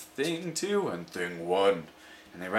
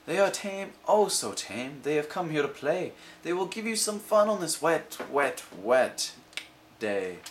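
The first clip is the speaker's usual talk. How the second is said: coaxing cat; 5 semitones higher than usual. Acted.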